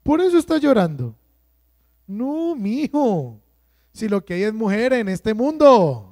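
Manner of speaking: a lightly voiced scoffing mother; dismissive parent. Parent shrugging off son's breakup, mock scoff. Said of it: "la mamá del papá suele decir".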